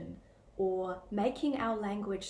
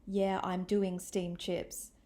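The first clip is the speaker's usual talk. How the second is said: mild sarcasm; 2 semitones lower, slower than usual. Retold or imitated. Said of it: "She communicates this through sarcasm".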